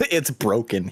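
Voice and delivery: laughing. Retold or imitated. Mocking friend while laughing.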